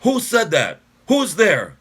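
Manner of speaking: high, loud panicky shouts; panicked. Acted. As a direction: call out in rising panic. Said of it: "rising panic in the soldier's voice".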